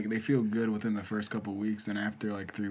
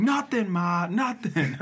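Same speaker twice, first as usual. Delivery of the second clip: put-on sulky teen; 6 semitones higher, slower than usual. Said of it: "He was like".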